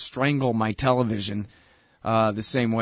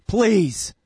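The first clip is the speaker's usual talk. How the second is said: high, strained mock begging; exasperated plea; 7 semitones higher, 4 dB louder than usual. Real, not acted. Host pleading with country singers, high mock begging. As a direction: beg in overdone exasperation.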